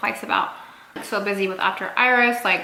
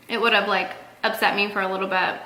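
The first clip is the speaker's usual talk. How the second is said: ordinary delivery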